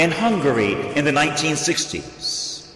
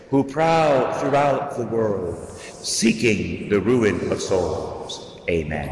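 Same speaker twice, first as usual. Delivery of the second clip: prayer recitation. Acted. Recites prayer within sermon.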